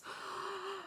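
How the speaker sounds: long, soft, high gasp; amazed gasp. Real, not acted. Vlogger about to see blush swatch, amazed gasp. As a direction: draw in a breath of amazement.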